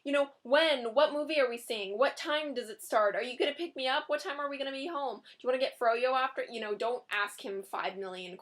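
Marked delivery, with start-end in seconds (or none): 0.0-6.4 overeager rapid questions. Pretend. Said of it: "don't just be like".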